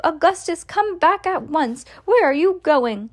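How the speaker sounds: high-pitched frantic scolding; screamed command. A narrator's reading. Mother calls her son back from the pipe, high frantic cry. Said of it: "screamed Missus Gloop".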